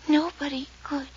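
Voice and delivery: hushed, breathy dread; a frightened girl whispering; fearful whisper. Acted. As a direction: whisper it as if afraid to be heard. Frightened girl in a mystery scene.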